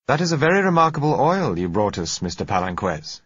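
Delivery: a lightly voiced director, pleasantly impressed; director's impressed remark. A narrator's reading. Managing director praising oil.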